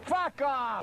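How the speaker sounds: real angry yell; angry outburst. Real, not acted. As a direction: snap it at the crew. Outburst at the crew.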